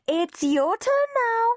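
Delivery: high, slow firm announcement; stern nurse. A narrator's reading. Nurse telling Henry it's his turn, firm and slow. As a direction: tell him firmly it's his turn.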